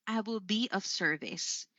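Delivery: "service" dropping softly at the end; plain statement, voice falling away on "service"; falling intonation. Shown as a demonstration. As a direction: demonstrate a declarative, settling down on "service". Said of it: "So declarative sentences could be".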